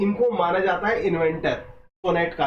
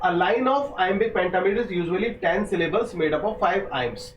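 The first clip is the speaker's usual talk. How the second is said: very slow, careful textbook reading; slow dictation reading; much slower than usual. Acted. Teacher dictating exam notes slowly to students. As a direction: lay each phrase down for students to copy.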